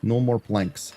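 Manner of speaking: put-on hammy stand-in Eastern European accent; bad Eastern European accent. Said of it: "This only goes on for ten minutes".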